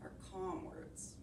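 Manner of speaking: soft unvoiced whisper. Real, not acted. Teacher whispering calm instructions to the class. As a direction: keep it barely a breath.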